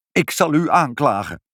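high, aggrieved protest; wailed threat. A narrator's reading. Pinkepank threatening to sue mother, high aggrieved wail. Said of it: "huilde meneer Pinkepank".

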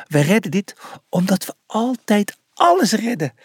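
cheery, confident encouragement; smiling promise. A narrator's reading. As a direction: promise it with a smile. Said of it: "beloofde ze met een lachje".

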